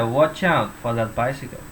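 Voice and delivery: "watch out" run together as one word, "watchout"; linked words. Shown as a demonstration. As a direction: link the end of "watch" straight into "out". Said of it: "Ini disambung aja". ("watch out" disambung tanpa jeda)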